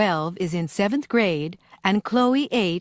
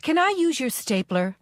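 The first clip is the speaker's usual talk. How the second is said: polite request; 6 semitones higher than usual. Shown as a demonstration. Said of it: "Write P for polite, I for impolite".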